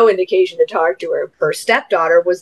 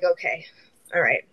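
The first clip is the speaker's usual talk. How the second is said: deflated acceptance; 2 semitones lower, 9 dB quieter than usual. Retold or imitated. Stepmom whose greeting went unheard, deflated acceptance. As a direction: back off quietly, under your breath.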